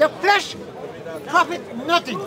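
ordinary talk

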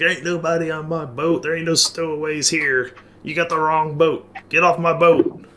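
put-on furious, angry shout, pitched high. Describing a boat being searched, imitating a man yelling. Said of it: "you hear the guy yelling".

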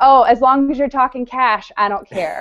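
plain

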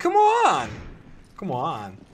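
bad, crappy put-on American accent. Urging progress in a co-op game: crappy American accent. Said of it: "doing it with that crappy American accent".

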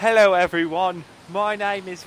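British accent, loud and high-pitched. Speaker introduces themselves while trying out accents, in a british accent. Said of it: "I did British".

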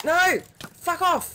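very high-pitched, overexcited yell. Playing a game and reacting to an attacker: overexcited shouting. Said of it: "That was a little bit overexcited".

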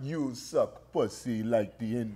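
low, muttered bad Russian accent, sounding Jamaican. Asked again how the Russians talk, doing a Russian accent that sounds Jamaican. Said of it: "That sounds like a Jamaican".

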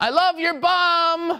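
very slow yell with "bum" stretched long. Retelling shouting at a woman walking by, retelling a yell. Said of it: "I just yelled at her".

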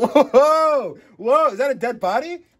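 mock gleeful cry, very loud and very slow. Imitating the person in the video reacting to a bad smell: imitating a happy reaction. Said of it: "He's like".

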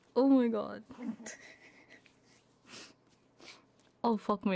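in tears. Speaker overwhelmed while looking at an artist's art, crying. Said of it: "I'm crying".

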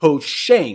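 strong emphasis landing on pushing. Explaining how the server sends messages to the consumer, with stress on 'pushing'. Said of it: "Emphasis on the pushing".

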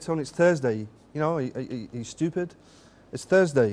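ordinary talk

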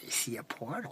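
very low, soft, eerie creature whisper.

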